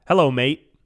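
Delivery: British slang in an American accent. Shown as a demonstration. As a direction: say the British greeting with plain American vowels. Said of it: "but with an American accent".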